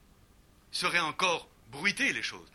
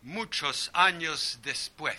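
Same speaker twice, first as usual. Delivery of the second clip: Spanish reading; slower than usual. Shown as a demonstration. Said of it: "la première phrase de Cent années".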